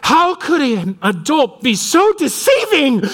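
high, slow outraged woman's voice; mock-scold like an offended church lady; indignant friend. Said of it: "She's like".

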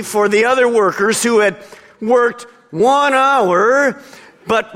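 hammed-up happy praise; mock-pious reading. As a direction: read it as a too-good-to-be-true version. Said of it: "Being mature followers of Christ, ... isn't gonna read that way".

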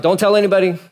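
hammed-up hush order; urgent warning. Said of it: "Jesus told the crowd".

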